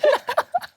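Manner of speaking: high choked laugh; teary laugh. Real, not acted. Host laughing tearfully at guest's story. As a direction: laugh through welling tears. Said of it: "I think I'm gonna cry".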